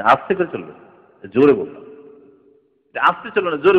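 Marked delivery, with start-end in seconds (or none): 0.0-1.8 father correcting the son, firmly louder; father insisting, louder. Retold or imitated. Firm parental correction. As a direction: punch জোরে louder. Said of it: "বলছে".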